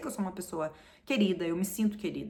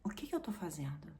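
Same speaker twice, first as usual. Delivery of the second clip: whispered inner thought; 4 semitones lower, 9 dB quieter than usual. Retold or imitated. Realizing in the shower what she is doing, whispered. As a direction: ask yourself under your breath. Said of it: "me bateu uma coisa assim".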